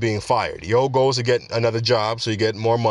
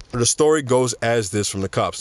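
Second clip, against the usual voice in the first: slowed-down retake. Real, not acted. Podcaster repeating a rushed line for listeners, slowed down. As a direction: say it over, spacing the words out. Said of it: "Sorry for talking so fast".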